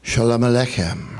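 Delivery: put-on lightly Jewish-accented greeting. Rabbi greets priest at sunrise service, light Jewish accent. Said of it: "with a Jewish accent".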